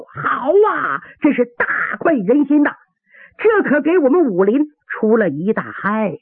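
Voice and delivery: mildly acted shout of approval; crowd cheering. Onlookers cheering the villain's fall, excited calling out. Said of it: "立刻有人大叫".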